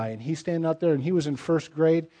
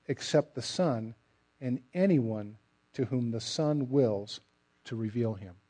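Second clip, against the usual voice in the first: scripture reading. Acted. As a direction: read the words of Christ with reverence. Reading Christ's words aloud.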